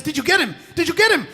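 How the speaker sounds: high, urgent repeated question, rising in pitch; anxious asking. Acted. Tiger anxiously rushes in.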